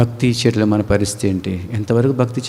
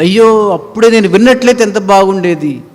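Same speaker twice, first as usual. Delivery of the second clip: higher, louder mock lament; regretful cry; 8 semitones higher, 5 dB louder than usual. Left-behind sinner regretting not listening, mild lament. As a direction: sigh it out in regret.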